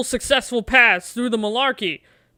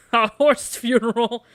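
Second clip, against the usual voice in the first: laughing disbelief. Real, not acted. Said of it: "Let's not have a horse funeral".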